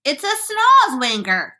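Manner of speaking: high, loud, drawn-out cry; alarmed cry. A narrator's reading. Police chief names the monster, crying out. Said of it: "cried the chief of police".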